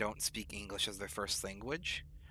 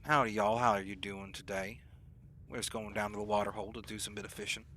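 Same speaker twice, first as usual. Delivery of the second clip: lightly attempted Southern US accent. Shown as a demonstration. Streamer demonstrating how Utah people talked, tentative Southern accent. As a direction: put on a rough, half-hearted Southern accent. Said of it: "That kind of bit of an accent".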